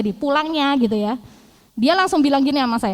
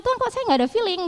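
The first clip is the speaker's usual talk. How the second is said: plaintive question to God; 10 semitones higher, faster than usual. Retold or imitated. Complaining to God.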